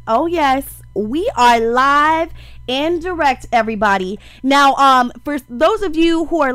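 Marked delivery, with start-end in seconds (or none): 0.1-4.2 radio host intro. Acted. Radio host greeting listeners.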